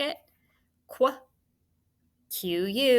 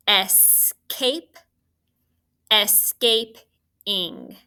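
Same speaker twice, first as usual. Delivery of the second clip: drawn out slowly, a little louder; slow dictation; 5 dB louder, much slower than usual. Shown as a demonstration. Teacher dictating the spelling word to students, slow and stretched. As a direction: stretch each syllable for the class. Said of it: "base word is".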